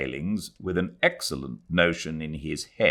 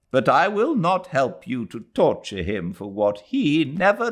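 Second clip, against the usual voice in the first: put-on higher, slowish, brooding old voice; mother refusing to help convict him; bitter old woman; 8 semitones higher, 3 dB louder than usual. A narrator's reading. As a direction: speak with tired scorn. Mrs Moore's bitter speech.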